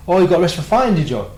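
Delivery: changed attitude. Retold or imitated. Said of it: "His attitude changed".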